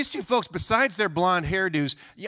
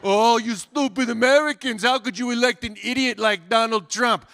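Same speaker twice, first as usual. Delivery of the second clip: louder, higher taunting singsong; mock gloating schadenfreude; gloating mockery; 5 semitones higher, 4 dB louder, slower than usual. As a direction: gloat over the smug Dutch, slowly at first. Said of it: "one part of me that was like".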